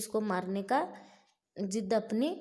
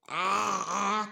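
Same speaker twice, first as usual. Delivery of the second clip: frightened cry; 4 dB louder than usual. Acted. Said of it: "डर के मारे वहाँ पे चीखता है".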